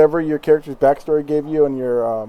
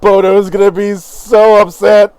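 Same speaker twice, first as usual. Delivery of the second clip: gleeful innkeeper; 5 semitones higher, 8 dB louder than usual. Acted. Innkeeper gloating about his brother.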